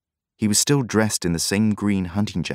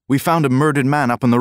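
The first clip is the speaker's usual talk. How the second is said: excited; 7 semitones higher, 6 dB louder than usual. A narrator's reading. Lad reports murder, excited.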